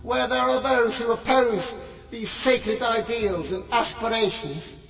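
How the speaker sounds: intoned, steady prayer reading; solemn prayer. Acted. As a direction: lead the congregation in prayer. Leads a prayer.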